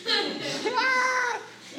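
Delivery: high squeal turning into a laugh; high startled laugh. Real, not acted. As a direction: let the fright melt into laughter. Startled by creepy angels.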